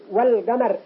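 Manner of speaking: "والقمر" slowly with audible l; clear lam. Shown as a demonstration. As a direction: dwell on the l in "والقمر". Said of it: "ظهرت". (إظهار لام "والقمر" بتأنٍ)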